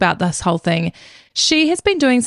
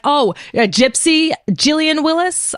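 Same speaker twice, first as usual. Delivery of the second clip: confronting daughter; 4 semitones higher than usual. Retold or imitated. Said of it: "Alexis is like".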